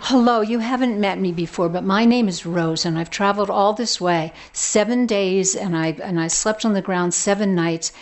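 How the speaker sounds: loud eager rush of words, no breath between; talking very fast. Acted. Rose pouring out her question to the elder, fast and loud. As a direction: blurt it all out at once. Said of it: "she starts to talk very fast".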